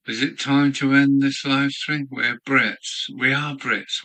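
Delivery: rousing call. Pretend. Rousing toast to viewers.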